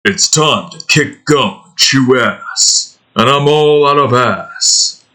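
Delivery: slow tough-guy one-liner, a little put-on; lightly voiced action hero quip; Duke Nukem impression. Streamer doing Duke's catchphrase in a light tough voice. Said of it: "let me get into the Duke mindset".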